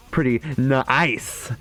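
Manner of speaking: slow, drawn-out emphasis; milk the pun. Shown as a demonstration. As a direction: stretch the pun out slowly. Drawn-out deliberate pun on ice.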